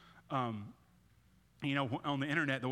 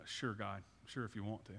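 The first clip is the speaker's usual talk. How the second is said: cynical; 4 semitones lower, 7 dB quieter than usual. Retold or imitated. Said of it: "there's a cynicism that we have that says".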